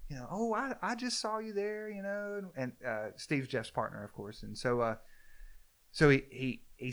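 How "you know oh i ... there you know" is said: super polite. Retold or imitated. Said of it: "super polite about it".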